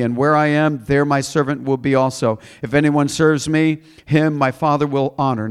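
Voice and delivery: emphatic Bible reading to a congregation; scripture reading. Acted. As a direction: read the verse out with weight. Reads scripture aloud.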